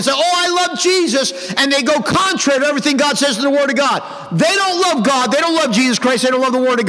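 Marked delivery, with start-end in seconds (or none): 0.1-1.3 high-pitched parody of pious feeling; mock emotional devotion. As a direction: imitate a hypocrite professing love with emotion. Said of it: "they say it with emotion".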